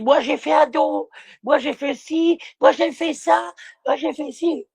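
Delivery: mock bragging donor. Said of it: "jamais ils ont dit".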